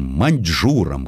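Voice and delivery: ordinary delivery, nothing marked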